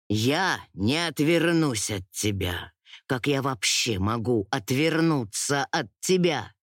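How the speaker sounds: low, sincere lover's voice; Darren, tender. Acted. Male character voiced lower.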